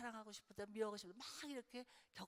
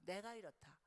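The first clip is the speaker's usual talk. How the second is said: sincere appeal. Shown as a demonstration. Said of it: "이렇게 표현하는 거예요".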